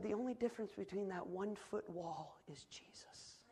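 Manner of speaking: soft, breath-heavy delivery of a key line; hushed quote. Retold or imitated. Wife's words to her preacher husband, retold in a hush. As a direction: drop almost to a whisper.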